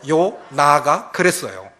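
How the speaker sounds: slow and loud so everyone can follow; slow emphatic repeat. Shown as a demonstration. Pastor has the congregation repeat the phrase, slow and loud. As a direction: spell it out syllable by syllable, loudly. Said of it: "누가 그랬다고요?".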